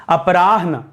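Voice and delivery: अपराह्न slowly, a-pa-raah-na, falling; slow teacher's model of अपराह्न; ह then न. Shown as a demonstration. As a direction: stretch रा, then breathe ह before न in अपराह्न. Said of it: "ह करके न करिएगा".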